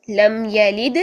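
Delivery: یلد with the final د bounced; bounced dal. Shown as a demonstration. Teacher reciting Surah Ikhlas as an example. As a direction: echo the دال. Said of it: "پھر سے دال ہلا".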